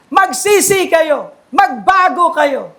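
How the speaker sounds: slow, drawn-out call to repent; imitated preaching cry. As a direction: stretch it out as a restrained proclamation. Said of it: "sumisigaw siya". (mabagal na panawagan, ginagayang sigaw)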